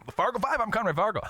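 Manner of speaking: high, punchy radio host intro; radio announcer voice. Shown as a demonstration. Host showing his old radio intro voice. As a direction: belt it like a radio DJ. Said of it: "I can do the radio voice all day long".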